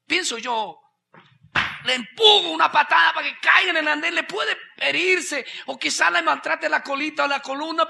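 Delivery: loud, high preaching shout; shouted, high-pitched preaching; preaching at full force. Acted. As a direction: drive it home to the congregation.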